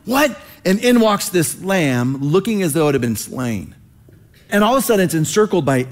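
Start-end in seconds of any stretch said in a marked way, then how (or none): 0.1-0.4 rising, baffled "lion?" questions; half-comic disbelief, last word shot up high; bewildered surprise. Retold or imitated. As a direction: play John stunned that a lamb walks in. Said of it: "John's probably going like".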